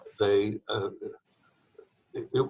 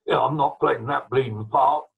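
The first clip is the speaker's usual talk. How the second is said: retold refusal, a bit louder; mock blunt refusal; 3 semitones higher, 6 dB louder than usual. First trombone refusing the part, retold as a mildly loud objection. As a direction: imitate a player flatly refusing.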